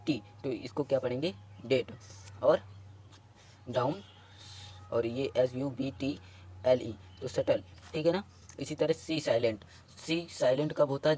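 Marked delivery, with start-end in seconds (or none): 1.7-1.9 डेट with no B before the T; silent B. Shown as a demonstration. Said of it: "तो वो भी silent हो जाएगा". 7.3-7.6 शटल with no B before the T; silent B. Shown as a demonstration. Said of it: "तो वो भी silent हो जाएगा".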